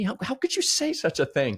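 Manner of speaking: high, indignant mock outrage; offended Scrooge. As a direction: play Scrooge's hurt protest, pitched high. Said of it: "Yeah, he's offended".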